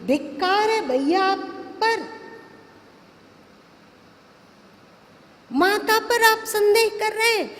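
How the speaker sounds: acted outrage on Mother's behalf; indignant challenge. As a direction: challenge him as an affronted son. Acting Lakshman's outraged challenge to Ram.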